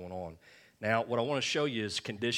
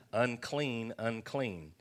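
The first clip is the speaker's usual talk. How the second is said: raised, falling cry of the leper; 2 semitones higher, much slower than usual. Acted. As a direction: call it out as the leper would. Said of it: "and cry".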